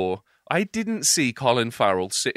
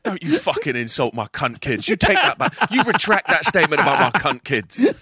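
mock outrage. Acted quarrel as the mob boss.

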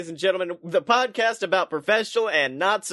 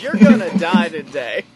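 menacing threat; 3 semitones lower, 7 dB louder than usual. Acted. Mock wrestler threat.

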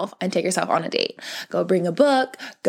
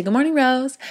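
greeting herself; 4 semitones higher than usual. Shown as a demonstration. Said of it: "I say".

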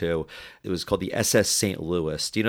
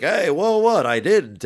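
startled, high and louder protest; defensive surprise; 8 semitones higher, 6 dB louder, slower than usual. Retold or imitated. Shooter answers the angry men, loud startled denial. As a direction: jump back like you're wrongly accused. Guard brushes off near miss.

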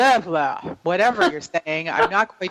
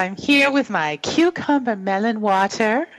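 princess voice; 3 semitones higher than usual. Pretend. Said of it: "I'll turn my princess voice off".

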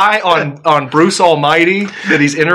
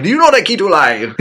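higher, put-on French Mountie; mock French accent, pitched up; 5 semitones higher than usual. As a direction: imitate a French-speaking Mountie. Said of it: "Mounties that speak French".

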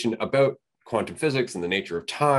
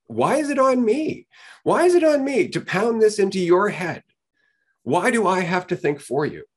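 exasperated outburst; 8 semitones higher, 3 dB louder than usual. Real, not acted. Host venting to his co-host about a rude listener, exasperated. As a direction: throw the question back in disbelief.

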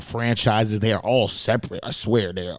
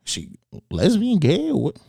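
puzzled inner thought; 6 semitones higher than usual. Retold or imitated. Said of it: "now I'm thinking".

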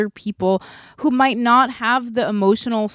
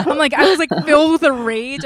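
higher, talking through laughter; real giggly admission; laughing; 6 semitones higher than usual. Real, not acted. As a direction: laugh while confessing it. Laughing at her own rage.

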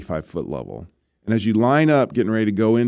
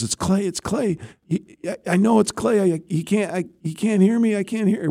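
much higher, frantic imitation of the wife on the phone; imitating his distraught wife; 12 semitones higher than usual. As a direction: voice the wife panicking that he can't hear her, pitched high. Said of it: "all I hear on the other side is screaming and crying".

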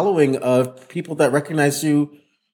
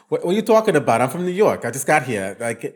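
hammed-up New York accent; 4 semitones higher, faster than usual. Shown as a demonstration. Coach showing a fan-dodging accent game, big New York accent. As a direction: play a big, brash New Yorker accent. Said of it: "like, New York accent".

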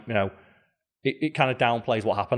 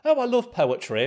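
Mimir; 11 semitones higher than usual. Retold or imitated. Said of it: "obviously Mimir being the erudite".

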